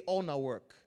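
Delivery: Nigerian Pidgin-flavoured prompt; Nigerian accent. Shown as a demonstration. Preacher asking somebody to say it back, Nigerian accent. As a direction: give "All na work" a Nigerian turn. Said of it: "in Nigerian accent?".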